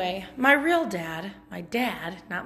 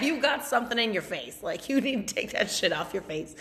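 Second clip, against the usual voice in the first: laughing callout. Retold or imitated. Acting out blunt friends, laughing.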